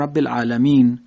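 العالمین ending on a silent n, the fatha dropped; stop with sukun. Shown as a demonstration. Teacher showing the pause on العالمین with sukun. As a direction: stop on العالمین with no final vowel.

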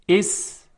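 است broken in two beats with a thin, light ت; segmented demo of است; light ta syllables. Shown as a demonstration. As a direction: sound out است slowly, keeping the t delicate. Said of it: "اول ت دو نقطه هست".

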